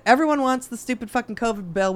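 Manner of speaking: normal talking voice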